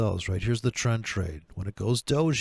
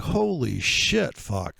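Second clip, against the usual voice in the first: mock astonishment; 3 semitones higher, much slower than usual. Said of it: "people were like".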